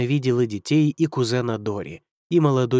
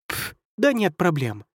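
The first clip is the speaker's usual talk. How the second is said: casual; 4 semitones higher than usual. Acted. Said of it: "ответила крыса".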